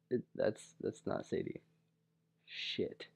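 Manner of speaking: hushed, breathy panic under the breath; horrified whisper. Retold or imitated. Whispering to himself after hugging the wrong girl, panicked whisper. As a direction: whisper it as the mistake sinks in.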